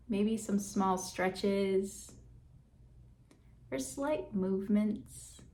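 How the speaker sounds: calm meditation guide with long, settling pauses; guided meditation. Real, not acted. Guide leading listeners to check in on breath and body, guided meditation. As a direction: ease listeners inward, leaving space between phrases.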